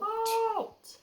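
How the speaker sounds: high, loud bellowed halt; deafening halt. Acted. Parent voicing the rat's deafening halt, bellowed. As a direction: boom the command out. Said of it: "bellowed a deafening".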